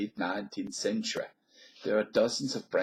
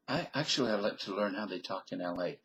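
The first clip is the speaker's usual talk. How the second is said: Midwestern American accent. Shown as a demonstration. I better switch my accent.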